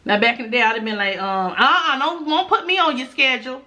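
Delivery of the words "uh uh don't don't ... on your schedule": higher, sassy brush-off; sassy refusal. Retold or imitated. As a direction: toss it off like a diva. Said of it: "I used to be a nut".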